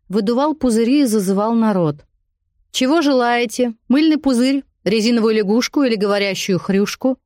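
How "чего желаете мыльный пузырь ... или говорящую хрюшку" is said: calling out to the crowd; bright fairground barker pitch. Acted.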